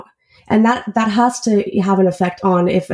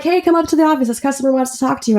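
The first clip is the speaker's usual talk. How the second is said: higher-pitched, quick retold call-over; lightly acted, eager summons; upbeat summons; 6 semitones higher, faster than usual. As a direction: coax a coworker up to the office. Acts out calling technician to office.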